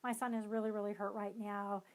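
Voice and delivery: smother the kid with pity, hammed-up; overdoing parent. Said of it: "you kind of overdo it".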